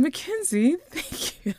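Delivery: high-pitched name, thanks dropping to a whispery hush; retold overwhelmed gratitude with a breath of laughter; touched thanks. Aunt moved by her niece's compliment, touched and hushed.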